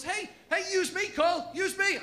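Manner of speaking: high coaxing whisper-ish plea; story begging Carl. Acted. The story itself begging Carl, high wheedling. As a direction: tempt him in a high wheedling voice.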